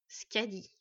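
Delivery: mildly growled name; understated hostile recognition. Acted. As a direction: say it as a restrained warning. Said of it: "gronda Siegfried".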